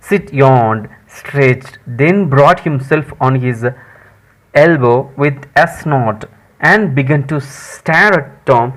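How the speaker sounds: slow, deliberate English reading; story read-aloud. Acted. Teacher reads Tom's groaning scene to students, slow read-aloud. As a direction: read it out word by word for learners.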